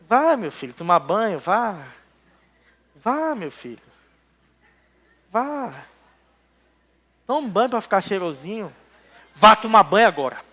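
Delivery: soft, gentle coaxing, mocking a too-soft parent; a mock tender mother. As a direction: sweet-talk the child into the bath. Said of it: "Se tu falar assim com teu filho".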